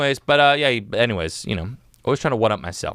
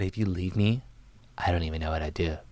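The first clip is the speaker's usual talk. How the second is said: put-on psycho girlfriend; 6 semitones lower, 4 dB quieter than usual. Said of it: "like a psycho girlfriend".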